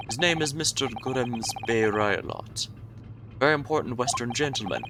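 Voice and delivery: a hint of a gruff guard boasting; sailor character voice.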